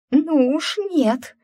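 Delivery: high, loud, slow hysterical cry; hysterical shriek. Acted. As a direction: shriek it in panic. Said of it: "истерично возопила".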